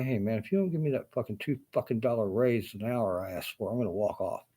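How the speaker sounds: mildly heated mock demand for a raise; acting out an irritated ultimatum; pissed-off employee. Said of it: "if you get pissed off at an asshole".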